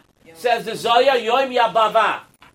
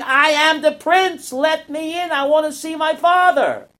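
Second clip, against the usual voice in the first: higher, calling prince begging to get in; pleading shout; 6 semitones higher than usual. Acted. Prince banging on the gates, shouting to be let in.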